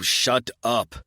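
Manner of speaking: loud harsh shut up; angry shout. A narrator's reading. Narrator silencing Mocha, loud angry shout. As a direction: snap it back loudly. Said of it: "I repeat".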